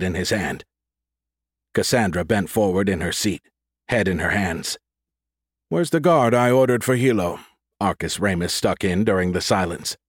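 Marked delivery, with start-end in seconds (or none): 5.7-7.4 higher-pitched, authoritative challenge; demanding. Acted. Ramus breaks the silence about the guard, demanding. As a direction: demand an answer with raised pitch.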